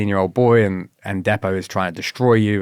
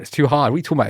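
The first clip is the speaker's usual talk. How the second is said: higher, mocking echo of a feeble complaint; mocking whine; 6 semitones higher, much faster than usual. Instructor mocking a recruit who wants to quit, higher taunt. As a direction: throw the words back as a taunt. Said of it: "He's like".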